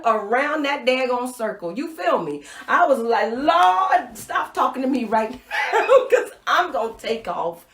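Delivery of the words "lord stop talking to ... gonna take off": overwhelmed plea. Retold or imitated. Retelling her overwhelmed plea to God.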